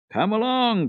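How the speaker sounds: high, loud call. A narrator's reading. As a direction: call her along, impatient. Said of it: "called Peter again".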